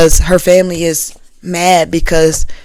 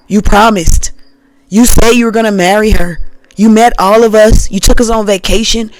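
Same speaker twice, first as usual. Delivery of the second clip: louder, accusing family scolding; hurt relatives demanding answers; upset family; 2 semitones higher, 3 dB louder than usual. Pretend.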